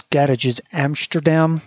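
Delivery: slow attempt at a Dutch accent. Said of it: "I really shouldn't have attempted a Dutch accent there".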